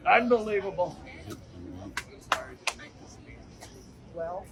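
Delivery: rally-stage Trump, self-congratulating; Trump impression. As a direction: brag to the crowd like a showman president. Trump show, Mister Trump.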